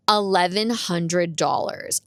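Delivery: drawn-out, deliberate retold quote; slow price quote. Mechanic tells her the repair cost, slow and deliberate. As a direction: spell out the price slowly.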